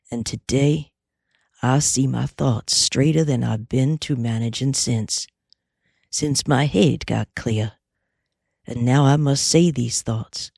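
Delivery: lightly voiced cowboy, weighing each word; a touch of a serious westerner speaking his mind. Cowboy's long speech.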